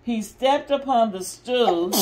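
lively, expressive picture-book reading; mother reading a Disney story to restless kids, lively and expressive; reading to children. Acted. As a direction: read it out big for the little ones. Reads story aloud to kids.

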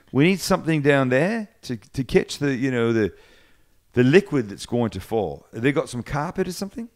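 imitated New Zealander, drifting toward Aussie; attempted Kiwi accent. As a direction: quote him in a rough Kiwi accent. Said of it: "I can't do the Kiwi accent".

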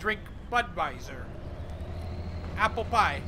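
loud, hammed-up Russian accent. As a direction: play a comic Russian tourist in a Russian accent. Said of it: "That's my foreign accent".

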